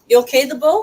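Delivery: high, loud call to the pet. Real, not acted. Asking the restless pet if it's okay, loud high call.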